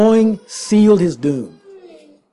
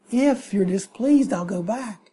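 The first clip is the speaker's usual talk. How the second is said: meek offer; 7 dB quieter than usual. Retold or imitated. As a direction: mumble it meekly and trail off. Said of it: "you say".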